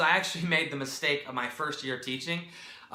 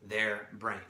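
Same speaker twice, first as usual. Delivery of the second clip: normal talking voice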